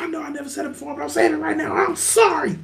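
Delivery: a hushed, hammed-up confession; soft mock apology. Seth's apology, acted out tearfully.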